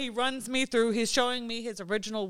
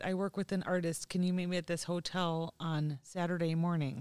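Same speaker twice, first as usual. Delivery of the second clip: softly voiced imitation of a caller; a touch hushed, understated; soft-spoken caller; 3 semitones lower, 7 dB quieter than usual. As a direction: quote it quietly and mildly. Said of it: "this really soft-spoken person called".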